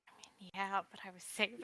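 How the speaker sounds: softly answering an aside; hushed reply breaking into a laugh; whispering back. Acted. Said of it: "Whispers back".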